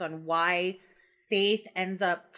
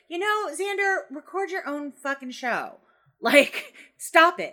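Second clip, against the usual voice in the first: high-pitched, fed-up outburst, louder at the end; exasperated telling-off; 7 semitones higher, 4 dB louder than usual. Acted. Voicing Willow standing up to Xander, exasperated. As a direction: act out finally telling a friend off.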